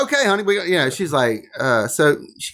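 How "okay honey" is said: high mock-compliant husband; imitating himself as husband. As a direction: humour the wife in a raised voice. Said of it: "So then I was like".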